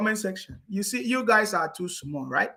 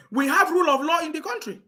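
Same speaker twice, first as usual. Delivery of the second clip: laughing mock repeat; 6 semitones higher than usual.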